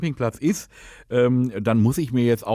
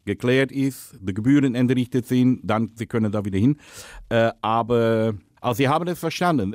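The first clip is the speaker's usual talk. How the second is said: put-on Dutch accent, lisping. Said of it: "rede, lispeln und Holländisch".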